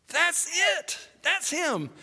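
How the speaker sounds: high-pitched exclamation of recognition; excited realization. Acted. Peter as the cogs click in, excited realization. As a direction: burst out as it suddenly clicks.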